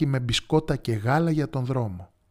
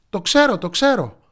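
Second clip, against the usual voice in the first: put-on higher, louder child calling out; eager shout; 8 semitones higher, 7 dB louder than usual. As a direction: blurt it out proudly. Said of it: "φώναξε το αγόρι". (ενθουσιασμένη φωνή)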